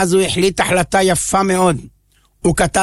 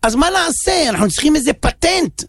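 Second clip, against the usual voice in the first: ordinary delivery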